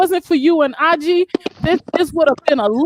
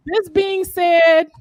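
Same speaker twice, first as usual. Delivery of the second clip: laughing while crying; much slower than usual. Real, not acted. Laughing through tears on stream.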